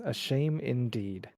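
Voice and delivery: slow, quiet, knowing reply; knowing glint. Acted. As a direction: let it hang, slow and quiet. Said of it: "her eyes seem to glitter".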